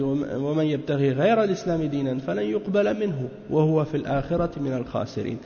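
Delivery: verse recited very fast in Arabic; rapid Quranic recitation. Acted. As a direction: run through the verse quickly from memory.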